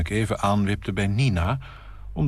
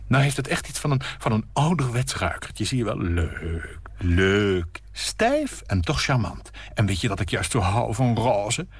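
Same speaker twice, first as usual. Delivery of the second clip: cooing hostess; 3 semitones higher than usual. Acted. Nina admiring her bouquet, lightly cooing.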